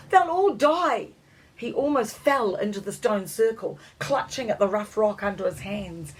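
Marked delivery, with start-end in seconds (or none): 0.1-1.1 high, loud, slow cry; boy yelling in despair; desperate yell. A narrator's reading. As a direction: yell the warning. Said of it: "Louis yelled".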